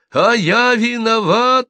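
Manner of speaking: high, loud, slow squealing cry; shrill squeal. A narrator's reading. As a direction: screech it in a thin voice. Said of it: "закричал Аркадий визгливым тонким голосом". (визгливый тонкий крик)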